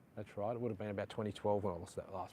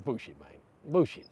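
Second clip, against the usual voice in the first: retold disbelief; 4 semitones higher, 9 dB louder than usual. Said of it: "He's like".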